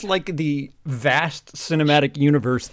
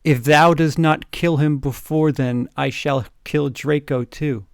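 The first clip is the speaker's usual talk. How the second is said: evil villain voice; slower than usual. Acted. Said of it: "Said evilly in his raspy voice".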